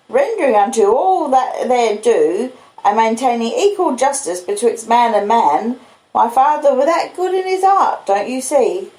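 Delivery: Joe the blacksmith. Acted. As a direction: speak as simple, proud Joe. Joe voiced in the story.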